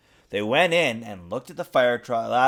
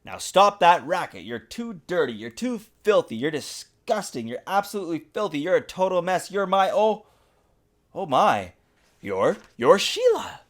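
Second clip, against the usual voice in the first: scolding father; 6 semitones higher than usual. Acted. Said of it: "Her father opened the door and said".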